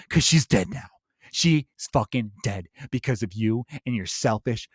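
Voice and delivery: mocking a far-left guy guilt-tripping a stranger; preachy scold impression. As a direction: lay on the guilt, sneering. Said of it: "did a stellar impression of".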